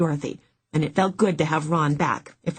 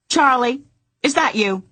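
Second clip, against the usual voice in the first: high, louder, whining client; whiny voice; 8 semitones higher, 5 dB louder than usual. Acted. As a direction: whine at her investigator. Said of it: "Dorothy's whiny voice".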